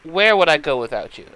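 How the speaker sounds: put-on lightly Russian-accented, fond and dramatic; a hint of Russian, doting on her friend. Natasha clinging to darling Ronnie in a light Russian accent.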